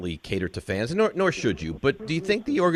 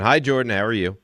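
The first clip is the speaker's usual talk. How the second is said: usual speaking voice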